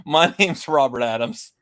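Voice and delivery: put-on high cackling old man. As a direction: chuckle through it like an old timer. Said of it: "this old man thing here".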